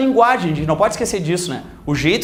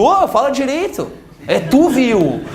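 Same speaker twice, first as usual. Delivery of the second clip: mock scolding; 4 semitones higher, slower than usual. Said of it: "E tu".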